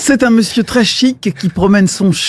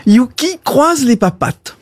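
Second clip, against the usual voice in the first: dog command; 3 semitones higher than usual. Acted. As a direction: order your dog to do a trick. Owner gives dog a command.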